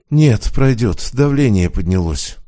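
lightly voiced chest pain, slow; slow, lightly strained through chest pain; clutching his heart. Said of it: "схватился за сердце".

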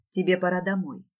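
understated, distant husband; lightly acted detachment; detached. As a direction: state it with cool distance. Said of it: "говорит мой муж отстранённо".

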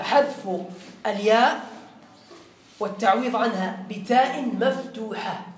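slow, spaced-out dictation; dictation pace. Shown as a demonstration. Teacher dictating the rule to students, slowly. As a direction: let students write every word. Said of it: "اكتبوا شباب".

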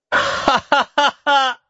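high slow guffaw; mocking laughter. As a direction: laugh at the knight. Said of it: "захохотал мальчик".

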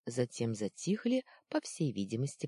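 usual speaking voice

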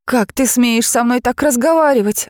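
suddenly brave and indignant; girl finding courage against the mocking dragon; bold indignation. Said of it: "осмелела Нейзи".

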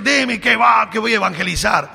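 high, loud cry to go evangelize; mock-fervent churchgoer shouting his mission; zealous shout. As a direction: shout it like a fired-up convert. Zealous believer shouts his plan.

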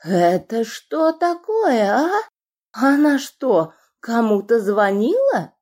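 high, slow squealing yell. A narrator's reading. Bald boss discovering the phone, squealing yell. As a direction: bellow with a squeal in it. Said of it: "привизгивая, заорал".

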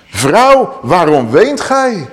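slow, lifted angelic voice; gentle angel. Acted. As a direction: ask her tenderly, as a heavenly messenger. Angels question the weeping woman.

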